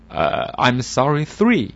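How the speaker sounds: slow, careful broken English; halting Chinglish. Acted. Hapless learner slowly apologising to foreigner. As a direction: sound earnest and lost. Bad English speaker answers.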